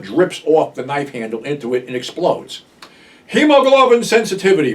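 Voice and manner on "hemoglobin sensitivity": imitating a film character's loud, high yell; mock yell. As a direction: yell it out as the retold movie line. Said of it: "Bartell yells".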